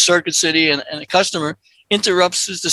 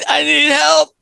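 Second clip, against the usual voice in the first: high, pleading shout; wailing for rescue; mock cry for help; 7 semitones higher than usual. Customer in the bathroom crying out, mock shout.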